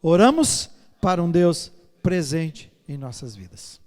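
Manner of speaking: loud, slow, deliberate prayer line; loud slow recitation. Shown as a demonstration. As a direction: lead the congregation's prayer aloud. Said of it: "Vamos falar juntos?".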